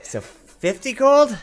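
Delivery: high, loud, drawn-out disbelief; balking at price. Acted. Blacksmith hearing the players' counter-offer, loud high incredulity. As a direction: stretch it out in shocked protest.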